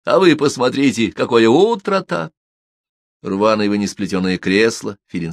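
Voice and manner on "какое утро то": ordinary delivery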